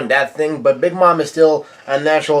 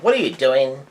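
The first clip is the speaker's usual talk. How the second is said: mock yell; 3 dB quieter than usual. Luffy yells at Nami as she takes out her weapon, mock yell. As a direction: imitate an alarmed yell without volume. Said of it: "Luffy yells out".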